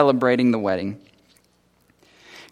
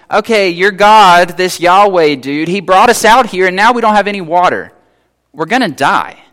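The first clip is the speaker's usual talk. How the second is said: whiny complaining people; 3 dB louder than usual. Retold or imitated. The people bickering to Moses, mock whiny. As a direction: drag it out like fed-up complainers. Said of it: "they're like".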